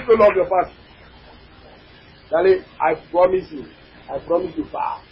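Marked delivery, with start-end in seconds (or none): 2.3-5.0 low, much softer vow; soft promise. Acted. Pastor promising congregation, hushed and tender. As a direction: drop to a near hush.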